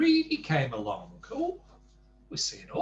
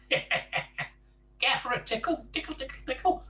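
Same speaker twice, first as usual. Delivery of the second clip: teasing tickle voice; 12 semitones higher than usual. Acted. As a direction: dangle the offer playfully. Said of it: "said Mister Tickle cheerfully".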